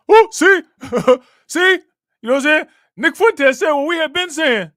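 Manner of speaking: high, loud, triumphant crowing; gloating excitement. Real, not acted. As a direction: crow it out loud, you were right all along. Streamer gloats, point proven.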